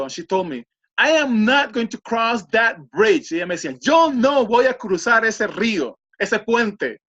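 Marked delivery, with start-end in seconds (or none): 1.0-3.3 higher, slow, emphatic retold refusal; adamant refusal. Acts out the woman's frightened refusal. 3.8-7.0 raised-pitch, emphatic retold refusal; adamant refusal. Same refusal retold in Spanish.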